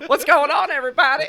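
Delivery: high, loud party-entrance holler; excited greeting shout. Retold or imitated. Friend dropping in by surprise, excited greeting shout. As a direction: burst in hollering to the whole room. Acted surprise arrival, calling out.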